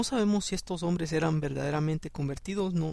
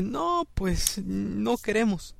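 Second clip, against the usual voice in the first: stubborn refusal; 5 semitones higher, much slower than usual. Retold or imitated. People refusing God's word.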